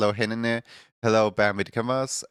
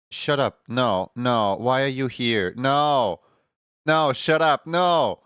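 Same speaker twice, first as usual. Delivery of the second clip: mock outrage; 2 semitones higher, 4 dB louder, slower than usual. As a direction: shoo them away with a teasing yell. Teasing a chatter who showed up.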